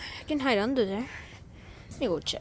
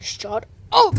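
shout; 10 semitones higher, 9 dB louder than usual. Real, not acted. Yelling at friend in game.

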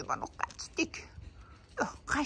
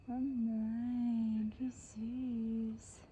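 soft, drawn-out coo; 6 dB quieter, much slower than usual. Real, not acted. Woman watching baby kittens from a distance, cooing. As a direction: melt quietly at something tiny and sweet.

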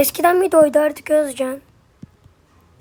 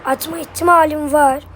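slightly hoarse, dry throat. Real, not acted. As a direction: talk through a scratchy throat. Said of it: "Sesim biraz kısık geliyor olabilir".

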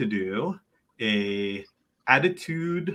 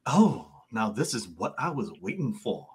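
flirty bartender. Acted. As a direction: lightly play a bartender sizing up a newcomer.

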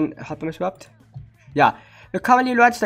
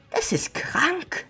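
whisper; 8 semitones higher, 6 dB quieter, much slower than usual. Real, not acted. Stunned at subscriber jump.

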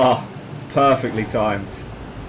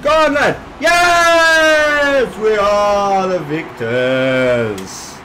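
put-on Welsh accent; 5 semitones higher, 4 dB louder, much slower than usual. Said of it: "Doing my best Welsh accent".

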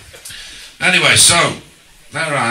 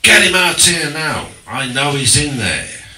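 loud, higher mock Cockney demand; Cockney bloke; 4 semitones higher, 6 dB louder than usual. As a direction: bark it like a rough Cockney bloke at the door. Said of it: "So, this bloke".

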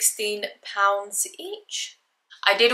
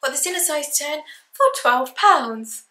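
put-on old price voice; 7 semitones higher than usual. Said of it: "I was always like".

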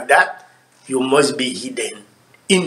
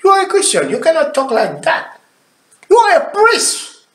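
retold rebuke; 9 semitones higher, faster than usual. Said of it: "I said".

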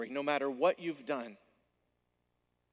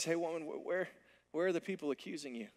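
soft, kind asking; gentle question; 3 semitones higher, 4 dB quieter, faster than usual. Acted. Jesus gently asking the woman where her accusers went. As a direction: ask her gently, no blame. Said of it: "Jesus doesn't have that tone at all".

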